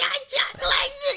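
very high-pitched, loud cartoon character voice. Imitate him in the factory scene doing cartoony stuff, in a really high-pitched cartoony voice. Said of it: "a really high-pitched voice".

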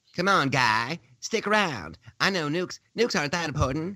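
high, exaggerated cartoon Canadian accent. Mocking talk about a trip to North Korea over nuclear weapons; South Park guys impression. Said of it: "I'm totally doing the, the South Park guys".

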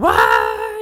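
very loud, stunned, shocked yell. Retelling a reaction to the first episode's final reveal: imitating own shocked yell. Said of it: "Sorry for yelling".

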